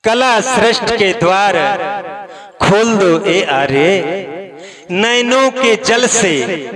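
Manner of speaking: measured poetic recitation over music; poem recital. Acted. Poetic recitation of Janak's lament.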